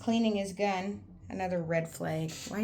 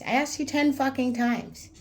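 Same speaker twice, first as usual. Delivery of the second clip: louder and higher, punching ten; angry shout; 7 semitones higher, 7 dB louder than usual. Retold or imitated. Telling off a jealous friend, angry shout. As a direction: yell it in his face, fed up.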